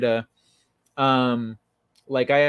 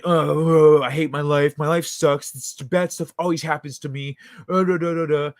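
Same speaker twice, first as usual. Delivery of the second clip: mildly mocking angry whine. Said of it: "he's all mad".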